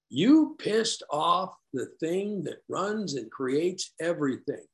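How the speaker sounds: slow, drawn-out mockery; measured, needling disbelief; mocking disbelief. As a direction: spell it out slowly, mock-incredulous. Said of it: "Now I know he's mocking me".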